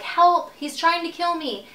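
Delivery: high-pitched mock cry for help; retold scream for help. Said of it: "I'm, like, screaming".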